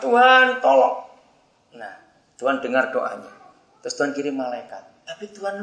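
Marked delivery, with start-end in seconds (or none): 0.0-1.1 high, raised-voice plea to God; pleading prayer. Acted. Man hanging over a ravine prays to God, urgent plea. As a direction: pray urgently, pitched high. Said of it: "Lalu dia berdoa".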